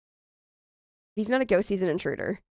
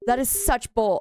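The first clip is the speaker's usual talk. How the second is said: angry. Real, not acted. Gamer venting after a wrong guess, angry. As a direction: dwell on each word in frustration. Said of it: "I'm so angry".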